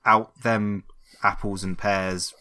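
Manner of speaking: slow, put-on Cockney patter; Cockney accent. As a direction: ham up a Cockney, feeling for the slang. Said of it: "Just do it in a Cockney accent".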